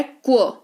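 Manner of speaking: क्व as a half k run into v; kw sound. Shown as a demonstration. Teacher showing how Q sounds, क्व blended as one sound. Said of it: "आधा क और व के तौर पर".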